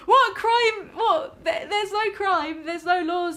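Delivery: high, loud incredulous laugh-talk; laughing disbelief. Real, not acted. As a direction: crack up in disbelief at the claim. Laughing disbelief at company statement.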